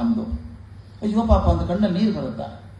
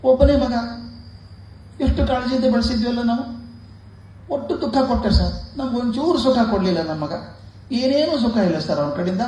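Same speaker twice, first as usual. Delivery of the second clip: tearful complaint; 6 semitones higher than usual. Retold or imitated. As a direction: pour out the grief like a wailing parent. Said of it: "ಹೆಂಡತಿ ಅಳೋದು, ಈ ಗಂಡ ಅಳೋದು". (ಎತ್ತರದ, ಜೋರಾದ ಅಳುವ ತಂದೆಯ ದೂರು)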